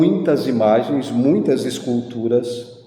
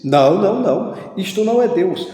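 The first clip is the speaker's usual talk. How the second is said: mock protest, pitched up; acted hasty denial; 6 semitones higher, faster than usual. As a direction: imitate someone quickly correcting a mistake. Acted Christian hastily correcting him.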